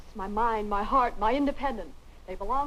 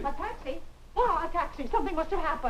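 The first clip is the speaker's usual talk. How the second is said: higher-pitched, excited surprise; 5 semitones higher than usual. Acted. Mother hearing Linda came by taxi, excited. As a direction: react as if it means big news. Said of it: "don't get all excited".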